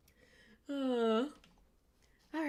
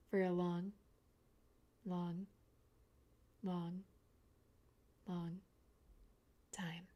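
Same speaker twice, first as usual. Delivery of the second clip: each long softer; fading spooky drawl; 4 semitones lower, 9 dB quieter, slower than usual. Pretend. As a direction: stretch it out and fade away. Slow creepy stare joke.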